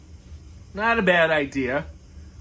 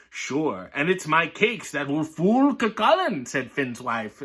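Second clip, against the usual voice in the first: lively read-aloud voice, characters lightly voiced; story reading. Reading a picture book to viewers, lively storytelling.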